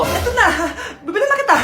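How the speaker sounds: high, laughing give-in; nervous laugh. Acted. Mother caves to spoiled child, laughing high. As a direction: laugh while caving in.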